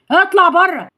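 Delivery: mildly acted angry dismissal; angry order. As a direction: throw him out, acted anger. Hero orders attacker out.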